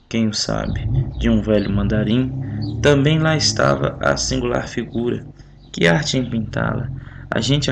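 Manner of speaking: measured, expressive reading of verse; poem recital. Acted. Teacher reads the sonnet aloud to the class, measured poem recital. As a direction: read the sonnet with care, line by line.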